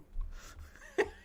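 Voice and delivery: airy high-pitched giggle; wheezing silent laugh; helpless breathy cackle; high breathless laugh. Real, not acted. Cracking up at chat.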